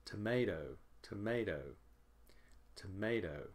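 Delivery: "tomato" with MAY prominent, then falling; stressed second syllable. Shown as a demonstration. Teacher drilling second-syllable stress, MAY prominent in "tomato". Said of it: "the second syllable is stressed".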